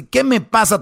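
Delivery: high indignant mock screech; furious wife. Wife explodes at her husband, angry shriek. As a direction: throw the question back outraged.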